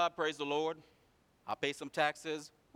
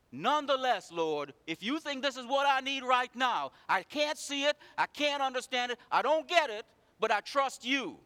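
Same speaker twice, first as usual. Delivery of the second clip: higher, louder fervent plea carried through to trust; earnest prayer; 10 semitones higher, 8 dB louder than usual. Retold or imitated. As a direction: pray it from the heart. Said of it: "We cry".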